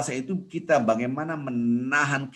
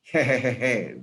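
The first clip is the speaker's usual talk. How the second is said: put-on "hehehe" giggle; mock cackle; 2 semitones higher, 5 dB louder, much slower than usual. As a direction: imitate someone chuckling at a dirty share. Mimics laughing at shared sticker.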